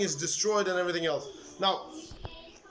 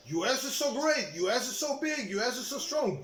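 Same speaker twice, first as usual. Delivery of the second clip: mocking quote; 4 semitones higher than usual. Vlogger mocking people who praise the US, sarcastic. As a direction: parrot the boasters with scorn.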